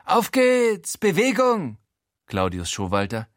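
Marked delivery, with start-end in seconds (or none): 0.1-1.8 much higher, commanding call; pushy landlord, much higher; bossy order. A narrator's reading. Claudius barks an order.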